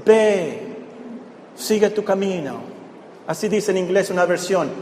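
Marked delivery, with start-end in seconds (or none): 0.1-2.5 softer, kindly go your way; a mild tender release; gentle sending off. Retold or imitated. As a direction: let her go with gentle kindness.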